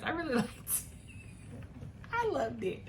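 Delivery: giggling through the words while remembering the book; real laughter breaking into the line; laughing. Real, not acted. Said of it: "I don't know why I'm laughing".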